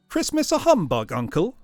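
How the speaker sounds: put-on disbelieving the old man; astonished. Nephew hearing Scrooge's humbug, incredulous cry.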